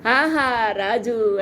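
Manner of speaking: "ఆహా" stretched out very slowly and falling, like a sneering cheer; slow scornful "ఆహా రాజు" with a falling ఆహా; mocking hail. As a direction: drag out "ఆహా రాజు" slowly to mock the king. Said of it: "హేళన చేస్తూ ఉన్నారు".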